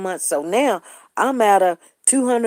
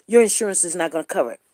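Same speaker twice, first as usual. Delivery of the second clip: clinic clerk voice; 4 semitones lower, much faster than usual. Retold or imitated. Imitating the clinic staff.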